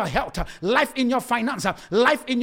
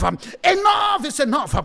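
slow, heavy, emphatic repeat; slow, drawn-out declaration; 3 semitones higher, slower than usual. Acted. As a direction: drag each word out firmly. Warfare prayer, repeated declaration.

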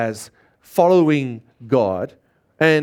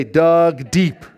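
call and response; 3 semitones higher, 6 dB louder than usual. Acted. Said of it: "for those of you who are awake now".

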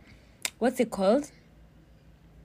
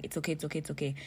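retold calming murmur; soothing reassurance; 2 semitones lower, 8 dB quieter, much faster than usual. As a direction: gently hush the worry, imitating friends. Friends reassuring her.

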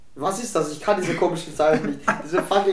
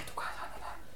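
very soft voiceless whisper; 16 dB quieter, much slower than usual. Shown as a demonstration. Showing a friend one can just whisper, whispered. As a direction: whisper it under your breath. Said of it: "du kannst nicht flüstern".

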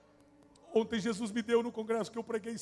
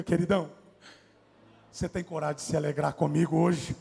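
louder, joyful greeting; 9 dB louder than usual. Shown as a demonstration. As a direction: say it full of joy, mouth wide open. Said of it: "Não, fala com alegria".

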